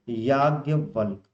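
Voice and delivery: each syllable drawn out slowly; teacher's slow careful word; slow spelling-out. Shown as a demonstration. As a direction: say it slowly and clearly for students. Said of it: "क्या लिखते हैं?".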